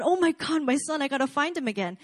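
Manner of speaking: mock frantic outburst; frantic father. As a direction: imitate a dad freaking out over his lost son. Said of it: "freaking out".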